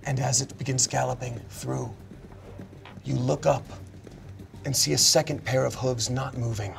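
soft, measured game master storytelling; suspenseful narration. Acted. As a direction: build suspense quietly, phrase by phrase. Game master's suspenseful scene setting.

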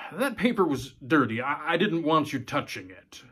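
a hint of a tense dad; lightly voiced father. Father hiding fear from his daughter, tense reassurance.

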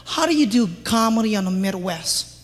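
soft, low mock complaint; half-hearted imitation of an annoyed fan; imitating an annoyed person. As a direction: mutter the question like someone put out. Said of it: "So people get mad".

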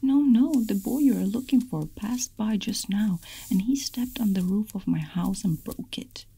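high, loud protest easing off, lightly tearful; mock crying. A narrator's reading. Rat pleading with the dragon man, mildly tearful. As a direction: narrate a rat's tearful plea, starting high. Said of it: "began to cry and said".

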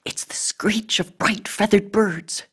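high, breathy stage whisper. A narrator's reading. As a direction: whisper it with intensity, still carrying. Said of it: "Ebony whispered".

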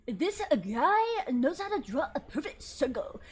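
slow, stilted scripted read; drawn-out imitation of a robotic script read; XQC reading a script. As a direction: mimic an AI-generated narrator. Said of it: "he sounds A I generated".

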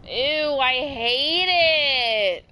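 high, loud, drawn-out whine; disgusted whine. Real, not acted. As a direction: moan at the ugly outfit. Disgusted at ugly outfit.

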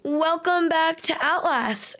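slow, with welcome stressed; slow greeting. Shown as a demonstration. Youtuber settling on a slow greeting take. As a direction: give it a slow falling greeting. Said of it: "Like, where am I going?".

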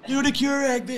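high, strained calling out; pestering fans. Acted. Fans demanding the bit everywhere, high mock shouting. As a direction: heckle from the crowd in a high voice. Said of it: "everyone's just like".

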